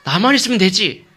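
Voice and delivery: loud, high-pitched dismissive assertion; self-assured husband. Acted. Husband brushing off his childless wife's grief, self-assured. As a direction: declare yourself all that she needs. 남편의 자신만만한 말 연기.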